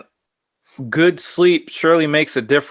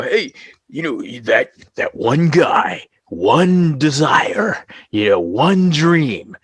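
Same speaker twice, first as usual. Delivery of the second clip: mild movie trailer voice; slower than usual. Retold or imitated. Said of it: "his skit".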